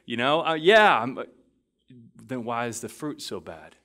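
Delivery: the younger self protesting to his mentor, exasperated; imitating frustration. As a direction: plead your case in exasperation. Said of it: "I would get frustrated 'cause I'd be like".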